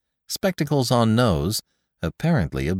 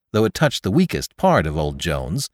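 ordinary delivery

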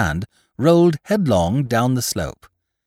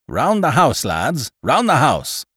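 urgent cry; 4 semitones higher, slower than usual. A narrator's reading. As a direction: call the men round in alarm. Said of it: "cried the captain ... a change in his voice".

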